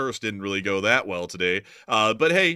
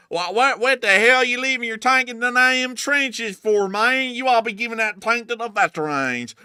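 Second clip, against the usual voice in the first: mock outrage; 10 semitones higher, 5 dB louder than usual. Mock outrage at donor joke.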